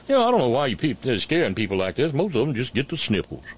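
lightly mocking impression of a governor; lightly put-on politician voice, dismissing the scare; Taint Reeves. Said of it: "Governor Taint Reeves might say".

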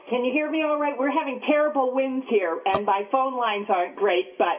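tinny, hollow phone line; bad line, like in a tin can. Real, not acted. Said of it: "You sound like you're in a tin can".

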